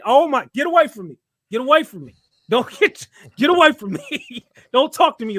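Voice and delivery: mock disgusted loud outburst; loud laughing recoil. Real, not acted. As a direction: push it away half laughing. Recoiling from slang.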